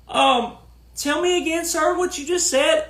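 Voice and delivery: high, fake-puzzled questioning; mock reporter. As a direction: pretend to be a baffled reporter. Mocking reporter asking again.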